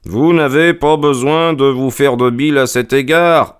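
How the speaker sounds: voix de détective nettement plus aiguë; écarter l'inquiétude avec assurance; Holmes sûr de lui. Acted. Holmes rassure et tranche. (Holmes posé et péremptoire)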